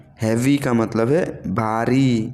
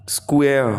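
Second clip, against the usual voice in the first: whispered word. Shown as a demonstration. Teacher drilling a word list whispers the word. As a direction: whisper the English word स्क्वायर, breath only, no voice.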